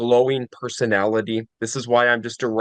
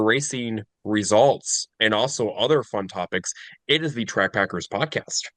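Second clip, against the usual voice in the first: ad read. Pretend. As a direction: read it like a podcast plug. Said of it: "how hard would it be to say".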